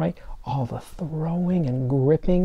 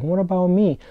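lightly voiced left-out finger; 6 semitones higher, 4 dB louder than usual. Other fingers voiced asking to join.

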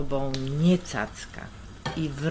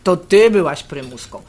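gorzki śmiech; 3 semitones higher, 8 dB louder than usual. Acted.

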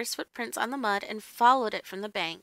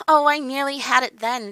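loud, mildly frustrated outcry; crying out; 3 semitones higher, 8 dB louder than usual. A narrator's reading. Dan trying to remember a lost memory, crying out. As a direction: cry it out louder, as if just missing it. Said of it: "Dan cried".

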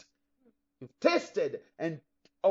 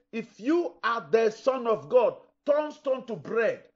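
slow, louder, higher tempter voice; lightly voiced Satan taunting Jesus; tempting Satan; 4 semitones higher, 6 dB louder, slower than usual. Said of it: "Satan told Jesus".

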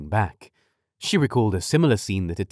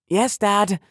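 impatient; 11 semitones higher, 3 dB louder than usual. A narrator's reading. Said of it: "growing a bit impatient".

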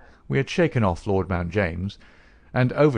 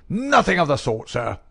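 higher mock scream of refusal, crackling; screaming little man; 7 semitones higher, 4 dB louder than usual. A narrator's reading. Old uncle refusing to pay for the search, mock scream. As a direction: snap it shut like a miser refusing. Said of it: "screamed the little man".

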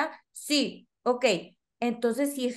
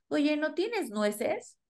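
put-on child asking for nuts. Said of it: "Y el que no te pregunta".

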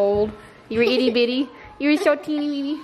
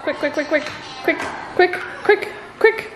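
excited; 4 semitones higher than usual. Real, not acted. Urging child before dad arrives.

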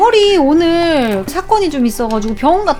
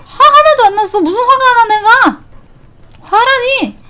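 mock calm denial; 6 semitones higher than usual. Streamer protesting to chat that he isn't angry, audibly riled. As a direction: deny being mad while clearly fuming.

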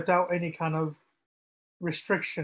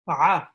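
throaty ayn; 6 dB louder than usual. Shown as a demonstration. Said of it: "from the throat".

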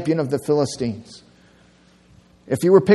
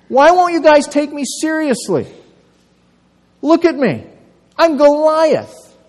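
rising high, louder outraged roar; indignant giant; 7 semitones higher, 4 dB louder than usual. Acted. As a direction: build from scoff to fury, slowing on "I'm Goliath". Preacher voices angry Goliath.

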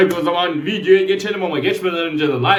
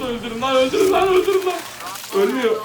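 shrill panicked shouting, much higher; frantic yell; 9 semitones higher than usual. Real, not acted. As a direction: scream orders at the team. Boss fight, yelling at bots.

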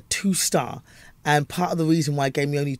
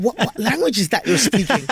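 baffled Americans; 6 semitones higher than usual. Retold or imitated. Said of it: "I used to have Americans go".

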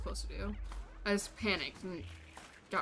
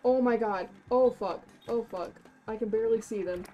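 loud panicked yelling; panicked screaming; 2 semitones higher, 12 dB louder than usual. Real, not acted. Chased by monsters in game.

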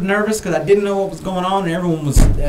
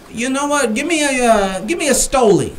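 higher, eager mock order; quoting himself; 8 semitones higher than usual. Nervous tourist ordering vodka, higher, eager. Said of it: "I says, uh".

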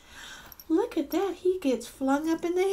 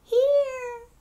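soft monster voice; 11 semitones higher than usual. A narrator's reading. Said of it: "very softly, she heard a voice say".

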